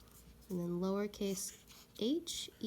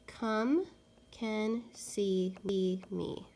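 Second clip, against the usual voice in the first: slow hushed trial reading; trying out a sentence; much slower than usual. Shown as a demonstration. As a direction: come can see me read slowly and whispered. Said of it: "let's try the word come first".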